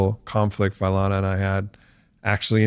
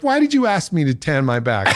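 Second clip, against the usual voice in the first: laughing mock accusation; 6 semitones higher than usual. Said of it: "And I was like".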